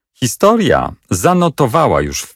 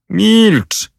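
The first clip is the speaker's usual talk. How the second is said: ostre, wysokie uciszenie; przerażony rycerz ucisza króla; przerażony okrzyk; 13 semitones higher than usual. A narrator's reading. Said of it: "zawołał Hendon przerażony". (Hendon w strachu ucisza króla, wysoko i ostro)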